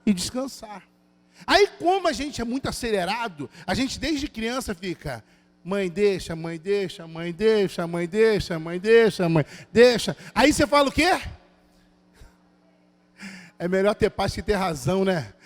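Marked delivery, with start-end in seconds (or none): 5.6-10.1 put-on a whiny kid begging mom, growing louder each time; nagging child. Pastor imitates a kid begging his mother, nagging and building louder. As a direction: keep pleading, building to loud.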